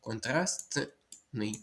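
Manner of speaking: Контрастний drawn out slowly with the т sounded; slow careful spelling. Shown as a demonstration. Teacher slowly stresses the kept т for students. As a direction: stretch Контрастний out so the т is heard. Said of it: "то ми їх залишаємо".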